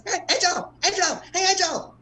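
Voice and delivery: high sing-song calls down the street; calling a kid named Angel. Retold or imitated. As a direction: yell after the kid by name.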